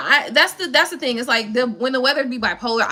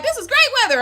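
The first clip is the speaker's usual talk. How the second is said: imitating a Chicagoan; 11 semitones higher, 3 dB louder than usual. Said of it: "You in Chicago, like".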